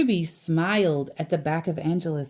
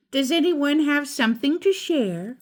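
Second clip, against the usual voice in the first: teacher question; 8 semitones higher than usual. A narrator's reading. Teacher asks class.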